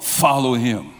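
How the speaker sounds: normal talking voice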